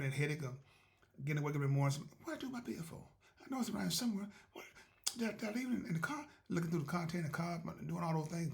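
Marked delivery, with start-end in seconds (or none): 2.2-6.3 frantic searcher. Acted. Acting out searching for bill.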